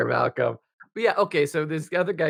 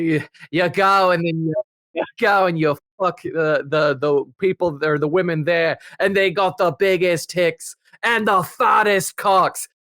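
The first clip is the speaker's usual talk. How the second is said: imitated drunk Dutchman; 2 semitones higher than usual. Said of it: "almost gave him an Australian accent".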